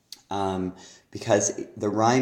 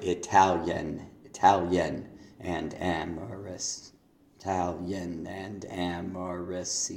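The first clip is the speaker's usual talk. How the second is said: Italian and amorous, slowed with measured beats; scansion demo; slower than usual. Shown as a demonstration. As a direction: sound out the stresses in "Italian and amorous" slowly. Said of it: "is how I would have marked it".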